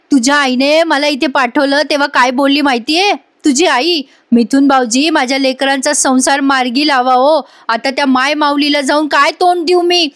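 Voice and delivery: rising, choked-up pleading, acted lightly; retold tearful plea. Uncle pleads with Jiva, imitating tearful rising despair. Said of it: "मिथुन काका रडतात".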